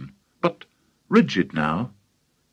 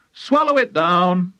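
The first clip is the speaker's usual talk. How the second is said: higher, emphatic command; crying out; 6 semitones higher, 3 dB louder than usual. A narrator's reading. George giving grandma her medicine, crying out. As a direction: cry it out as an order. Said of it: "George cried out".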